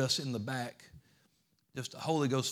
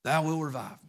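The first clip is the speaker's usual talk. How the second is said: proclaimed scripture; 5 semitones higher, 6 dB louder than usual. Acted. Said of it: "He said".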